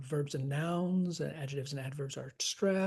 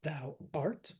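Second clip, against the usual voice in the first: "Thou" light, "art" stressed; sounding out stresses; 4 dB quieter than usual. Shown as a demonstration. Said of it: "start sounding it out".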